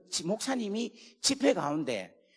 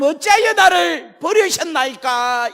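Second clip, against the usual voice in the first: 어찌하여 cried high, loud and slow; anguished cry; 10 semitones higher, 12 dB louder, slower than usual. Acted. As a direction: cry 어찌하여 out in agony from the cross. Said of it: "돌아가실 때". (어찌하여를 높고 크게 절규)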